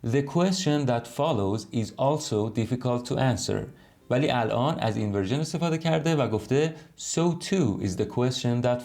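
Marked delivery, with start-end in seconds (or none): 0.0-3.7 slow clear reading. Shown as a demonstration. Teacher reading the non-inverted sentence slowly to students. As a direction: read slowly, word by word.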